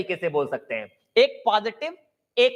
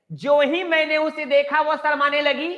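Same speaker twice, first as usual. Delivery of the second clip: ज्यों ही मैंने उसे देखा raised high and set apart from the talk; higher quoted example voice; model sentence; 6 semitones higher than usual. Shown as a demonstration. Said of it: "तो देखिए ऐसे".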